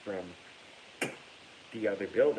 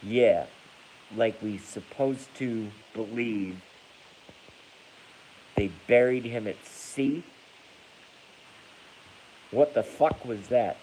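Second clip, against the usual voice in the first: loud incredulous; 6 dB louder, slower than usual. Real, not acted. Reading comment, incredulous outburst.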